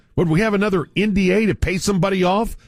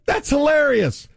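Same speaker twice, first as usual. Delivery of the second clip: higher mock shout through a laugh; hammed-up chuckling crowd; 8 semitones higher than usual. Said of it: "we just all sit back and go".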